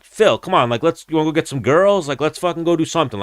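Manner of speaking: high, pushy friend voice; imitating a friend dragging him out; mock eager persuasion; coaxing buddy.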